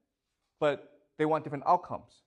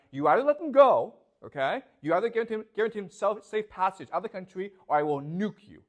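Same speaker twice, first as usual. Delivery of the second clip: raised, louder mock ultimatum; hammed-up threat, pitched up and pushed; mock Trump threat; 3 semitones higher, 4 dB louder than usual. Trump threatening Tehran to free troops, mock loud ultimatum. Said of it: "So he says to Tehran".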